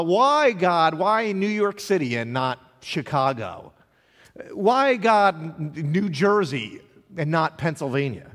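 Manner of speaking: loud, emphatic cry of why; pleading questions. Acted. Preacher voicing a congregation's questions to God, pleading. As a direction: punch the why, then ease down.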